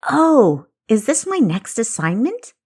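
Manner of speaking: light up at the idea of a new mission; young spy realising her next job; eager surprise. Acted. Kessa guesses her new mission.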